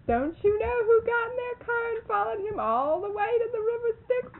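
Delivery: high, loud, teasing question through laughter; laughing teasing. Retold or imitated. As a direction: tease him, half laughing. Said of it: "she said".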